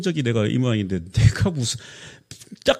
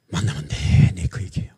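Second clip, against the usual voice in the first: whisper; 9 semitones lower than usual. Real, not acted. Aside whispered.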